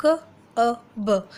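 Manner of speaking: slow, letter by letter; sounding out letters. Shown as a demonstration. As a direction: sound out each letter slowly. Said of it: "यू का इसी तरीके से".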